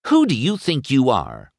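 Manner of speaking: furious demand. A narrator's reading. Sally wheels to face McQueen, demanding. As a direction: demand it with mild fury. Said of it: "she demanded".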